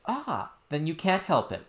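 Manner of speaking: put-on high child voice, pleading; a little girl explaining earnestly; insistent princess. Princess telling nurse what happened, high and earnest.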